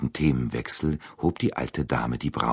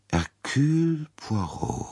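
slow, higher, musing repetition of the name; slow recognition; 12 semitones higher, slower than usual. Acted. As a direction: let the name sink in slowly. Princess repeats the name. (langsam und nachdenklich, höher)

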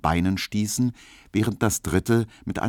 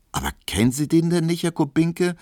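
much higher and fast, amazed call; exclaiming; 10 semitones higher, faster than usual. Acted. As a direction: she can't believe he doesn't know. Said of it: "rief Pauline".

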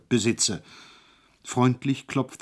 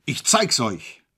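bawling; slower than usual. A narrator's reading. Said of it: "gröhlte".

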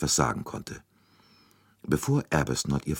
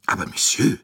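higher, louder shocked objection; protesting; 7 semitones higher, 5 dB louder than usual. A narrator's reading. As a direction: cry out in protest. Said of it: "rief Monsieur Bouc protestierend".

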